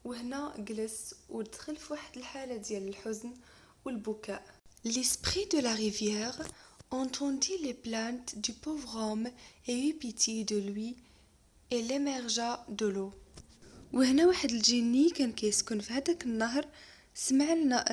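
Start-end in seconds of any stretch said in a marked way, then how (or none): 4.8-13.1 lecture de conte. Acted. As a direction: lecture lente et posée d'un conte. Reading the tale aloud. (maître qui lit un conte lentement à sa classe)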